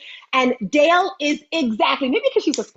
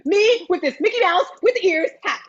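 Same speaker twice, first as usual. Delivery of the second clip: ordinary delivery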